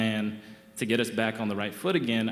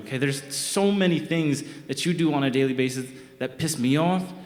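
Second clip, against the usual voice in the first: unloading on her point by point; heated rant; 4 semitones higher than usual. Retold or imitated. Boyfriend ranting at girlfriend during a fight, heated.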